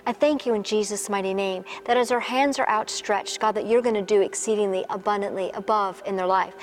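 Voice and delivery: earnest spoken prayer over music. Acted. Pastor praying for the women watching, earnestly. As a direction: pray over them steadily.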